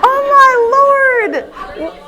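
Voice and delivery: tearful laughing wail, very high and loud; really crying. Real, not acted. Speaker begging the audience not to film, crying. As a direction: cry and laugh at once, shouting in embarrassment. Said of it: "why am I crying?".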